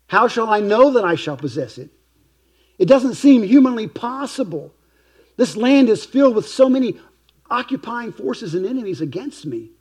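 pleading up toward God, anxious; anxious plea. Acted.

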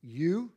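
YOU set apart and stressed; emphatic. Retold or imitated. Preacher restating the Lord's words to his disciples, emphatic. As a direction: lean firmly on YOU, then pause.

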